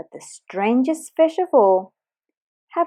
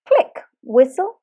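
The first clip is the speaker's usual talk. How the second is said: dolphin noises; 2 semitones higher, 3 dB louder than usual. Retold or imitated. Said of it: "hearing them trying to speak".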